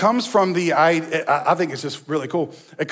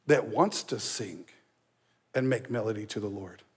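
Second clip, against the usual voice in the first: soft and tender; 8 semitones lower, 9 dB quieter than usual. Real, not acted. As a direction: voice drops low and soft, almost hushed. Preacher drops to soft.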